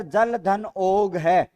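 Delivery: जल धन ओग है drawn out word by word at an even level; teacher reading the option जल धन ओग है slowly for the class; slow dictation. Shown as a demonstration. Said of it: "आपके सामने है सर".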